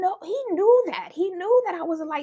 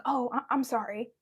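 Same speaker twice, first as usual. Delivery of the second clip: sheepish dad; 8 semitones lower, 6 dB quieter than usual. Retold or imitated. Dad caught, apologizing sheepishly.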